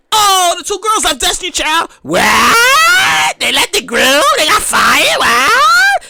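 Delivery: high squawking "What?"; shocked disbelief. Retold or imitated. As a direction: gasp at the news. Fans reacting to news.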